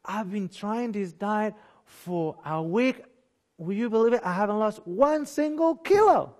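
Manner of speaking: hammed-up dieter whining about no weight loss; imitating frustrated dieter. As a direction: mimic a dieter grumbling that nothing works. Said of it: "many people that come to me".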